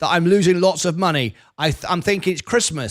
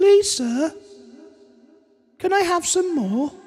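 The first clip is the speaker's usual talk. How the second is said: begging in a voice pitched way up; 11 semitones higher than usual. Performing a requested line after chat asks for more: Oliver Twist voice. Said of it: "I can do it".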